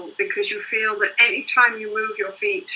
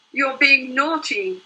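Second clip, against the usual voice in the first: scolding mother; 3 semitones higher than usual. Retold or imitated. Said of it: "she turned and said to him".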